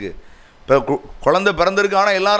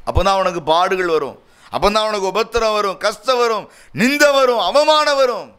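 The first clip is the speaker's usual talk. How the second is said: rising rhetorical build, each phrase higher; building preacher's list; 5 semitones higher than usual. Real, not acted. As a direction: pitch climbing higher with each item. Preacher piles up trials to come.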